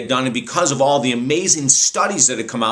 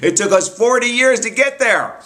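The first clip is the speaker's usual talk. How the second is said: imitated laughing guru; 10 semitones higher than usual. Guru laughing at his own five-year plan, imitated high-pitched hilarity. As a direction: pitch it way up like he's tickled by it. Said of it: "And he started laughing".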